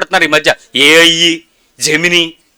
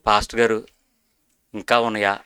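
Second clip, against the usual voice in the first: worried question; 9 semitones lower, 10 dB quieter than usual. Retold or imitated. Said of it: "అన్నాడు".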